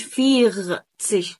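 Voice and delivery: "فيغتسيك" slow, with a scraped gh for R; wrong throaty R. Shown as a demonstration. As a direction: grind the R in "فيغتسيك" as ghain. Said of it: "غلط الكلام ده".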